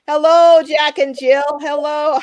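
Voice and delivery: cheery hello aimed at a viewer's dogs; doggy greeting. Real, not acted. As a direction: call out hello to the pups.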